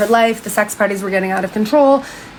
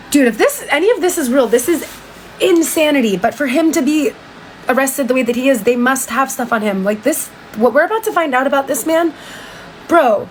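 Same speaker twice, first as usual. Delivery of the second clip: pitched up, stunned, half laughing at the madness; can you believe this, rising in disbelief; disbelieving outburst; 4 semitones higher than usual. Real, not acted. Reacting in disbelief to the story.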